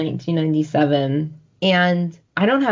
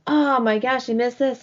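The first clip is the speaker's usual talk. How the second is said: retold gushing; 6 semitones higher than usual. Retold wail to dad.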